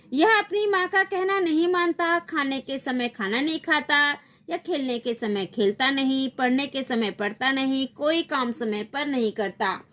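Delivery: high, complaining fairy voice; sleep fairy complaining. Acted. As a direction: list the boy's faults to the queen. (नींद परी की ऊँची शिकायत)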